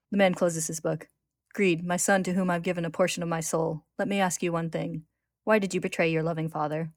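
measured read-aloud with lightly voiced dialogue; story narration. A narrator's reading. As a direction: read the tale clearly, lifting the quoted lines.

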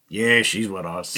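slow, reluctant admission; Brad Pitt. Retold or imitated. Soldier owning up after a pause, slow reluctant reply. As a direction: lightly imitate him, dragging it out. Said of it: "you can hear Brad Pitt".

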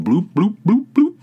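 pouring sound effect. Retold or imitated. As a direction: mimic liquid glugging out of a bottle. Mimicking vinegar poured into dishwasher.

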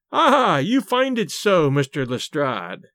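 slow, drawn-out gloating; triumphant. Acted. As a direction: savour the rival's defeat slowly. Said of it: "cried Gregson triumphantly".

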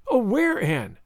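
high wail dropping on the name; a lightly acted tearful plea; sobbing. A narrator's reading. Schoolgirl pleading with her hurt friend, mildly sobbing. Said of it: "sobbed Carrie Sloane".

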